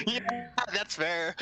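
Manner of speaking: laughing while agreeing. Real, not acted. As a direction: chuckle through the words. Player laughing at GM joke.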